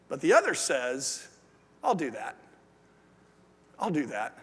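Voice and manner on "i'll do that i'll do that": quiet resolve. Retold or imitated. Other student commits.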